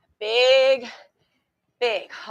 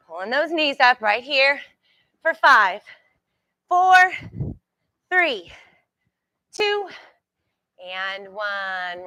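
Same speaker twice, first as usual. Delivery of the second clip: coach countdown; slower than usual. Real, not acted. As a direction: count them down hard.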